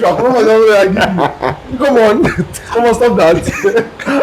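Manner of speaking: slow, laughing come on; amused protest through laughter. Retold or imitated. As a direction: laugh while pushing back. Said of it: "somebody said".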